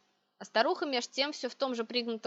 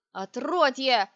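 loud, drawn-out witch's outburst; sudden roar; 2 semitones higher, 7 dB louder, much slower than usual. A narrator's reading. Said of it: "вдруг взревела ведьма".

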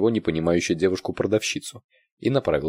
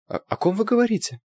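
high startled voice; frightened. A narrator's reading. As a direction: sound caught out and scared. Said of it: "испугалась продавщица".

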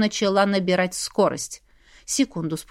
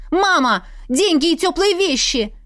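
higher-pitched urgent order; mild bark; 7 semitones higher than usual. A narrator's reading. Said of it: "рявкнула я". (негромкий резкий окрик)

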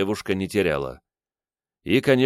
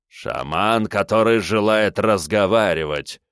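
contemptuous; 2 semitones higher than usual. Acted. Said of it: "презрительно бросил он".

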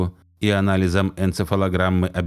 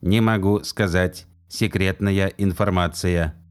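slow, metallic robot monotone; slower than usual. Acted. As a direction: report it like a machine. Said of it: "металлическим голосом".

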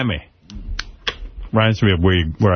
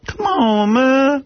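high, drawn-out whine of come on man; high kid plea; much slower than usual. Retold or imitated. Telling friends about school, he imitates himself whining high. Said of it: "At school".

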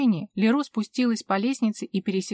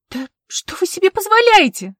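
much higher, louder outburst; snapping; 10 semitones higher, 9 dB louder than usual. A narrator's reading. Vivien finally breaking on the officer, furious outburst. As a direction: lose your temper completely. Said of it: "сорвалась Вивьен".

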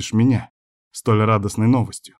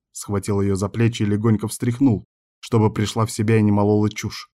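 ordinary delivery

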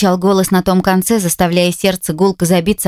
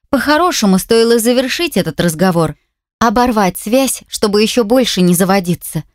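ordinary delivery

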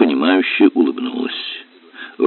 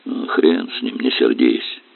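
soft, low, half-whispered peacemaking; smooth it over quietly; peaceable; 7 semitones lower, 5 dB quieter than usual. A narrator's reading. Captain makes peace with the helmsman, soft and low. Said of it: "миролюбиво сказал".

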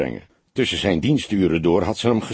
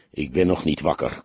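grumpy; 5 semitones lower than usual. A narrator's reading. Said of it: "klonk het knorrig".

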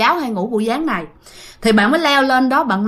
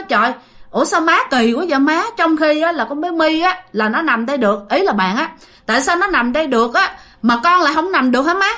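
higher-pitched, mildly aggrieved questioning; protesting; 4 semitones higher than usual. Retold or imitated. Aunt asks her mother why niece may lie there, protesting. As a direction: complain like a slighted daughter.

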